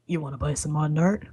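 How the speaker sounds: shady alley peddler's pitch; furtive street-seller voice; Sal. Acted. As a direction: offer contraband on the sly. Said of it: "his name's Sal".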